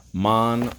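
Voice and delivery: "Monologue" in three beats, mon, o, log; "Monologue" broken into separate stressed syllables. Shown as a demonstration. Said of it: "Three syllables".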